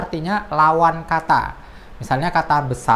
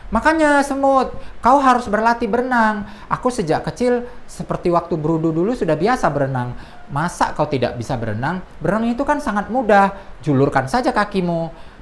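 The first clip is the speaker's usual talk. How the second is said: fable dialogue voice; 4 semitones higher than usual. Acted. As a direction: lecture the ant playfully, then settle. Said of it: "Seperti contoh ini".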